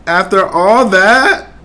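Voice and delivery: drawn-out mimicry, rising at the end; Karl Anthony Towns. Streamer mimicking the clip he just watched, drawn out. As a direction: slowly echo the player's catchphrase. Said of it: "Let's see what he be saying".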